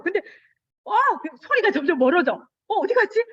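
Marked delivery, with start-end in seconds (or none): 2.7-3.2 startled wondering. Retold or imitated. Child realizing nobody holds.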